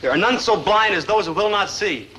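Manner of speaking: slow, deliberate pronouncement; mock-solemn proverb. Maynard warns his lovesick friend with a card saying, solemn recitation. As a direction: intone it like profound wisdom.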